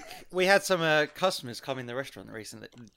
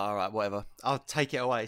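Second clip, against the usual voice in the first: low, soft, unbothered reply; retold resigned shrug; 6 semitones lower, 6 dB quieter than usual. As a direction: give in with an imitated shrug.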